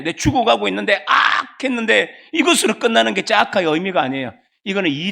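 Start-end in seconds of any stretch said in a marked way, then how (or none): 1.1-1.6 higher, quick cry of pain; brief acted dying yelp; acted stab cry. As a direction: cry out as if stabbed. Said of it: "내가 억울하게 칼에 찔려 엎드려졌는데".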